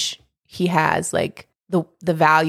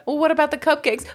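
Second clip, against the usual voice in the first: mock Shrek question; 9 semitones higher, faster than usual. Shrek voiced in the retelling.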